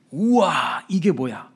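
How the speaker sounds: mildly voiced wow of wonder; a touch of awe; acted amazement. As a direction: act out a moment of marvelling. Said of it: "감동과 감탄이 터져 나왔다는".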